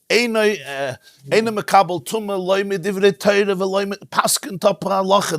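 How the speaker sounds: mild hint of a tearful rebbe; retold crying quote. Retelling how the Rebbe wept quoting the Rambam, mildly tearful. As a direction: retell the rebbe's weeping ruling, understated. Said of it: "And he's crying, mamash, like, sobbing".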